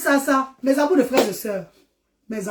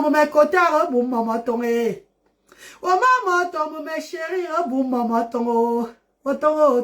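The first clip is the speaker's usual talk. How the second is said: imitating child's babble; 2 semitones higher, slower than usual.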